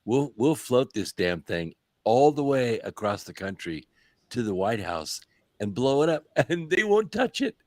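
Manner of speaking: gloating dictator taunt; smug leader boasting, half-laughing; President Xi. Retold or imitated. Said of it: "I'm President Xi".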